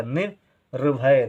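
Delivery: निर्भय stretched slowly, syllable by syllable; slow teacher dictation; slow sounding out. Shown as a demonstration. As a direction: draw out निर्भय so children hear each sound. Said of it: "कम समय के लिए".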